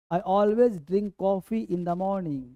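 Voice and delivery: each word drawn out slowly for learners; slow model sentence. Shown as a demonstration. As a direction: read it slowly so students can follow. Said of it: "teacher models sentence slowly".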